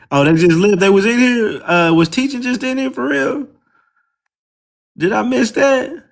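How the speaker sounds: teasing a chat visitor in a mocking squeaky voice; mock high-pitched voice. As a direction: pitch way up to mimic the little high voice. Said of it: "that little high-pitched voice motherfucker".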